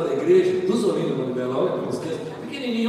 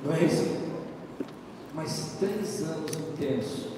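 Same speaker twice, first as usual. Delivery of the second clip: quieter, earnest preaching; sermon; 7 semitones lower, 6 dB quieter than usual. Acted. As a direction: exhort the congregation calmly. Sermon exhortation. (pregação séria e contida)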